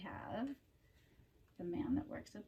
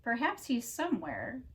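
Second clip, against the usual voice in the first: animated read-aloud with drawn-out key words; storybook narration; 9 dB louder than usual. A narrator's reading. Reader telling children about Mister Tickle, storybook narration. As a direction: read it like a picture book for children.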